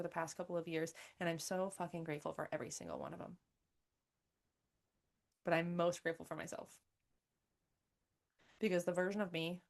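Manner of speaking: soft, low, heartfelt reflection; sincere gratitude. Real, not acted. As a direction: bring the voice down, softly sincere. Heartfelt gratitude, reflecting on younger self.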